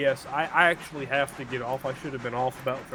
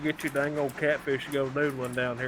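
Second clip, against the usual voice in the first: Texas drawl; 2 semitones lower, 4 dB louder than usual. Acted. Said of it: "He just sound like he's from Texas".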